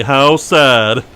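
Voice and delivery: mock sincere sadness. Player repeating fake pity, hammed-up sad. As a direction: overdo the pity. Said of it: "I like how I say that so genuinely".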